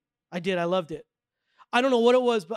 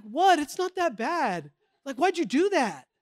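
mock surprise; 6 semitones higher, slower than usual. Retold reply to church friends.

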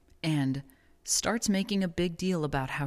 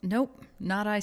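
snooty bored cat; 5 semitones higher, slower than usual. Retold or imitated. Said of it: "said the cat".

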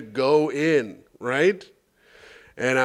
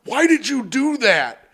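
shocked nurse; 10 semitones higher than usual. Retold or imitated. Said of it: "He goes".

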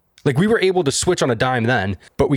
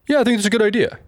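high sarcastic voice of approval; a hammed-up mock agreement, pitched high; 11 semitones higher, much faster than usual. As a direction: sneer it out as fake agreement. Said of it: "nobody's like".

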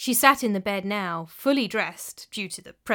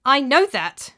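mild snap; 4 semitones higher, 7 dB louder than usual. A narrator's reading. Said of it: "she snapped".

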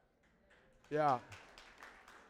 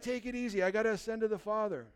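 calm down; 6 dB quieter, faster than usual. Retold or imitated. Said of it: "And he's like".

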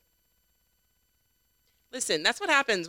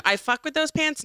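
doubtful echo; 8 semitones higher than usual. Shown as a demonstration. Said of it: "That's different".

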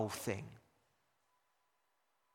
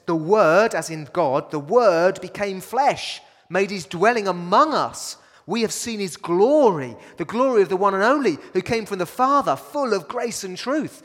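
scripture reading; 3 dB louder than usual. Acted. Quoting John's gospel aloud.

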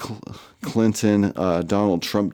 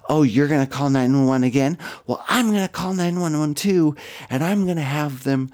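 high, shrill-pitched mock yell, rising to the top; mocking her scream; 6 semitones higher than usual. Driver threatening the narrator, mock screamed high. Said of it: "I hear her say and scream".

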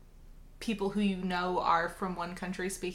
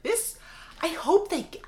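much higher, breathy pleading hope; hopeful rooting; 9 semitones higher than usual. Retold or imitated. Rooting for the pilots to land, high hushed hope. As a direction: cheer the plane on under your breath.

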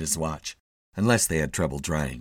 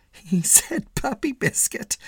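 higher, slow mocking repeat of Puppy Biscuit; a mildly amused woman quoting him; amused passerby; slower than usual. A narrator's reading. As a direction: tease it to her friend, drawn out. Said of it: "A woman who was passing laughed".

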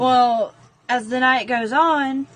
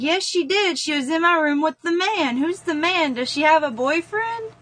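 put-on insistent child; 7 semitones higher than usual.

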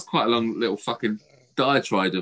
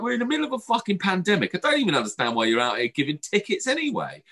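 much higher, exasperated; outraged rant; 9 semitones higher than usual. Retold or imitated. Scolding the warden about the pandemic, outraged. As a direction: pitch it up in outrage.

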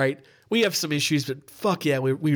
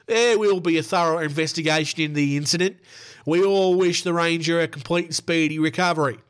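hammed-up Australian accent; Northern Queensland accent. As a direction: read the statement as a North Queensland Aussie. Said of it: "My best Northern Queensland accent".

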